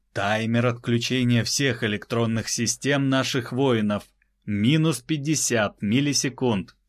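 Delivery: crisp commanding orders; clear loud commands. Acted. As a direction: call each phrase clearly. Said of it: "Чётко и громко проговорил он".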